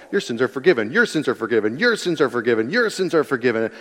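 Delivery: rattled off over and over, same tune each time; singsong, run-on repetition; glib repetition. Retold or imitated. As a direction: repeat it like empty words anyone could say. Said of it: "I could say all day long".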